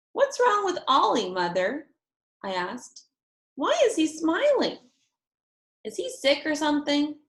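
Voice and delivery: put-on high, wondering child voice; puzzled little girl. A narrator's reading. Girl asking mother about baby, puzzled. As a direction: ask like a confused kid.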